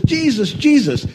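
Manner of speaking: put-on high excited child calling out. Boy running down the aisle calling to Jesus, high and excited. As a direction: call his name down the aisle with joy. Boy on stage, arms open.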